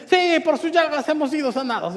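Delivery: lightly excited echo of a declaration; imitated excitement. Preacher imitates his passenger joining in, mildly excited. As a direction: chime in with mild mock excitement. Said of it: "él se emociona también y dice".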